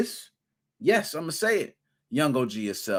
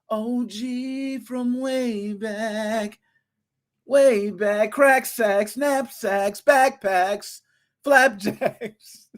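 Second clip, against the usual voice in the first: hype rhyming; 7 semitones higher, much slower than usual. Acted. Rhyming hype intro for MGR.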